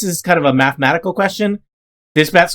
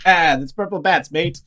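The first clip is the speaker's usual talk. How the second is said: bad British accent. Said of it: "my horrible half British, half pirate".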